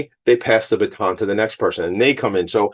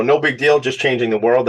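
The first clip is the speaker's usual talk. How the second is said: playful fake nonchalance; tongue in cheek; 3 semitones higher than usual. Shown as a demonstration. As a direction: toss it off like it's nothing, pitch up. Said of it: "That's tongue in cheek".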